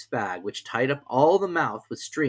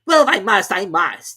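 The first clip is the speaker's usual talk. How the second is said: melancholy; 9 semitones higher, 12 dB louder than usual. A narrator's reading. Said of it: "with a melancholy air".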